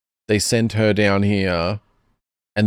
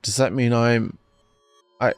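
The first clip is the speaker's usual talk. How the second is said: put-on a girl learning she may be a clone; panicked Momoka; 3 semitones higher than usual. Momoka reels at the note, voiced in panic.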